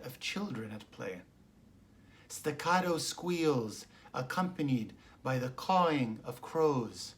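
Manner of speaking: measured verse reading with pauses between images; poetry reading. Real, not acted. Poet reads Oceanside Epiphany to listeners, measured poetry reading. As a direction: set out each image unhurriedly. Reads own poem aloud.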